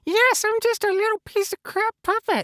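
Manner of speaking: a lightly voiced cheery Elmo puppet; chirpy puppet character talking to the host. Puppet Elmo chatting with the host, lightly voiced.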